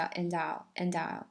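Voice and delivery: "and I'll" run together as one word; linked words. Shown as a demonstration. Teacher teaching linking, "and I'll" as one word. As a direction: glide the D of "and" into "I'll". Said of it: "把它想象成一个单词".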